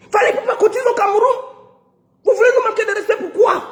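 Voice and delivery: fast, mocking indignation; sarcastic outrage. Real, not acted. Scoffing at the organisers, a fast sarcastic jab. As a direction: rattle it off with bitter sarcasm.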